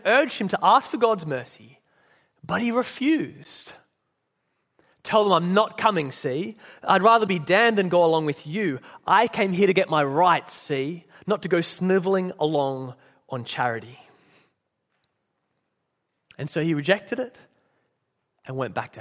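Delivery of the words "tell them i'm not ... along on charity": lightly acted stubborn refusal; defiant ghost. Ghost refuses charity from man in heaven, mildly defiant. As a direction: refuse indignantly, punching key words.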